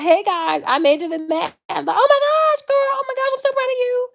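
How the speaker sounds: high-pitched gushing white girl impression. Black speaker imagining being a white girl, gushing white-girl voice. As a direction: gush far up high in a mock white-girl squeal. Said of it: "But if I was a white girl".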